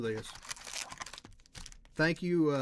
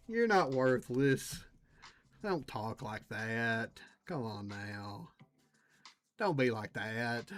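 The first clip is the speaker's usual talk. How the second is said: gently soothing a pack of cards, slowly; mock consoling; 3 semitones lower, slower than usual. Consoling a disappointing card.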